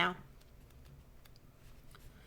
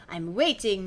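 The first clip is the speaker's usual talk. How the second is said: put-on French accent; slower than usual. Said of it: "She's French as well".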